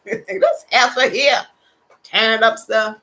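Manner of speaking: mock husband grumble. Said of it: "cussed me out many times in his head".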